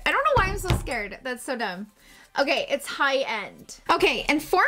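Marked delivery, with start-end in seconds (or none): 0.1-1.2 nervous scared. Real, not acted. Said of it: "I'm scared".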